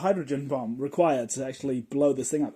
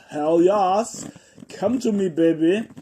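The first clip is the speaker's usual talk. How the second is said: loud, higher, thrilled shout of welcome; a queen who can't wait any longer; eager queen; 5 semitones higher, 9 dB louder, slower than usual. Pretend. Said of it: "she's just like".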